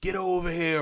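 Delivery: high, loud growled game catchphrase; Scorpion voice. Retold or imitated. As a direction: shout it like Scorpion. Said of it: "Scorpion's voice when he's like".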